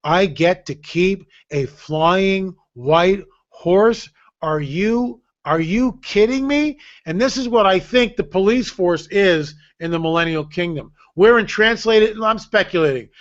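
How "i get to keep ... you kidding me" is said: amazed. Retold or imitated. Realizing he gets a flying horse, slow amazed disbelief. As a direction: savour the unbelievable news. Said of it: "And I went".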